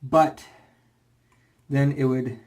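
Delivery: slightly winded while talking; out of breath. Real, not acted. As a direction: talk short of breath. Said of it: "you can tell I'm out of shape".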